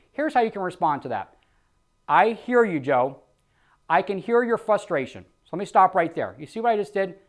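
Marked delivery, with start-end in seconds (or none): 2.1-5.2 understanding agent voice; calm empathetic sales reply. Shown as a demonstration. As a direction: acknowledge their frustration gently. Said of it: "I'm empathetic to what they're going through".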